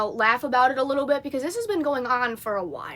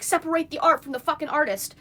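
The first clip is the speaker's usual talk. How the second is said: lightly mocked, higher-pitched retort; imitating roommate; 4 semitones higher than usual. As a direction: parrot her retort in a higher voice. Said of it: "and she's like".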